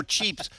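"Cheeps" with a long ee for "chips"; mock Spanish accent. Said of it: "in an accent".

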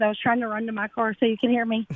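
quick, breathless rush; words hurried out while still panting; out of breath. Real, not acted. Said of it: "sorry, I'm out of breath".

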